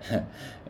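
snort. A narrator's reading. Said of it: "Sylvan snorted".

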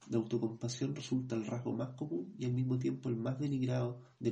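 measured, even reading of a grief memoir; book reading. Acted. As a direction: read the passage steadily, like an audiobook. Reads book passage aloud.

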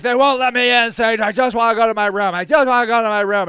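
rushed, whining complaint, imitating a drunk; imitated drunk yelling. Locked-out drunk man to his helper, imitated yelling. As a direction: plead in a mild mock yell, hurried. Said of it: "And he's yelling".

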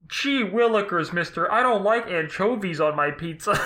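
put-on hammy old-timey kid actor line; wholesome 1950s kid. Shown as a demonstration. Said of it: "all of the characters sound like this".

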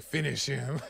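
a hint of a fighting-game announcer, kept soft; Mortal Kombat announcer. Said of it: "that video game where they're like this".

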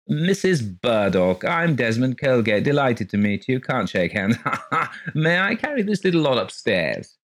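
a lightly voiced high-pitched fat man; high shrill man. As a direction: pitch up a jolly little man's voice. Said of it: "His voice was startlingly high and shrill".

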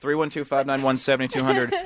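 steady radio phone-number read; announcer read. Acted.

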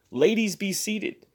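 high, slow showman's call; minstrel fashion. Acted. Host to the ladies, in showman's style. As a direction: play the smooth stage host. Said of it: "in minstrel fashion".

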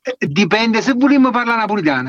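light put-on Neapolitan accent; a Marche speaker imitating a Neapolitan accent. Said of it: "l'accento di un marchigiano che imita il napoletano".

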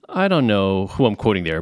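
ordinary talk, nothing marked

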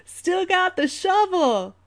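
put-on high, loud, drawn-out old man voice; old man character. Old man answering a rapper, hammed-up slow accented punchline. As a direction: crow it slowly in a put-on old-timer accent. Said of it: "old man answers".

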